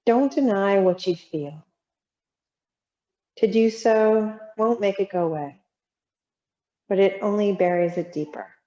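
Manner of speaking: measured reading with long pauses between lines; reflective prose reading. Real, not acted. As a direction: let each line settle before the next. Reads prose aloud to class.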